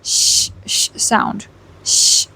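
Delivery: drawn-out voiceless "sh"; sustained hushing "sh" sound; sharp SH. Shown as a demonstration. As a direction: give "sh" a sharp hiss. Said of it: "you give a sharp sh".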